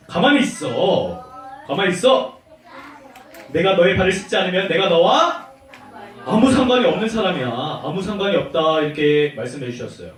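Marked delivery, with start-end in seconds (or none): 0.1-8.8 lightly voiced firm teacher; Jesus. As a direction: settle the protest with a lower, measured authority. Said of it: "예수님께서 어떻게 했냐면".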